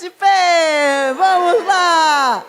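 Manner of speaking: loud rallying shout to the room; calling out. Real, not acted. Leader calls the women to stand, loud shout. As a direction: rouse them onto their feet.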